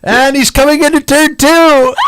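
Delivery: high, shouted race call; motorsport commentator. Pretend. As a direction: yell it like a race caller. Mock race crash commentary.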